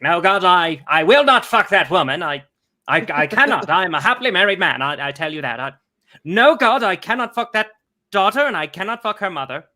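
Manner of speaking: lightly voiced old-time radio announcer; a hint of a crisp vintage broadcaster; 1930s radio announcer. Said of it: "nineteen thirties radio announcer's voice".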